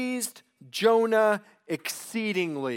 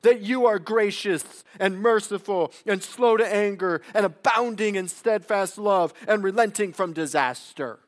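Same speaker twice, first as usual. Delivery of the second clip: 1 accusing God; 3 dB louder than usual. Acted. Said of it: "uses this as an accusation against God".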